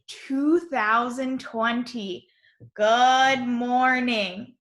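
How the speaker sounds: slow, drawn-out classroom read-aloud; slow, deliberate reading for young learners; reading aloud to children. Acted. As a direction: read the class message word by word, cheerily. Reads morning message aloud to children.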